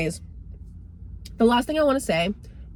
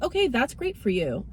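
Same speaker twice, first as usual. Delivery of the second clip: mock sweet approval; 4 semitones higher than usual. Sarcastic reply to friends' dream.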